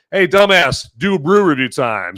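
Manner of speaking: fate bossing him around; lightly hammed-up order to a dumbass; mock command. Voicing fate giving him orders.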